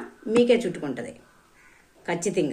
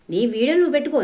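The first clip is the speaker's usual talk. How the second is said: angry outburst; 7 semitones higher, 3 dB louder, faster than usual. Real, not acted. Scolding a commenter angrily.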